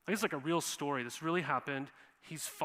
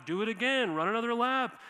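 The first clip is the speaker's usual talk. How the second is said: louder, higher barked coach orders; coach yelling; 5 semitones higher, 4 dB louder than usual. Retold or imitated. Football coach yelling laps at players, mock yelling. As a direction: yell like a drill coach at the players. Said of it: "they're just yelling at us".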